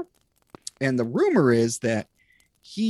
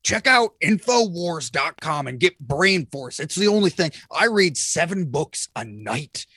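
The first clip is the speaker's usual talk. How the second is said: hammy raspy talk show rant; ranting like a conspiracy radio host; Alex Jones voice; 2 semitones higher than usual. Retold or imitated. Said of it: "It hurts to do that voice".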